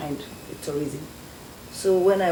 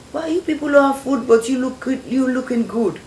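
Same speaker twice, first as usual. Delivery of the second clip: much higher and louder, a hammed-up mocking question; mock British man; 8 semitones higher, 7 dB louder than usual. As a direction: play the teasing foreigner, pitched up high. Retold British man mocking her.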